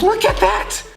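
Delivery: shrieking high with delight; excited squeal. Real, not acted. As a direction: squeal it out, thrilled by the new phone. Squeals unboxing the new iPhone.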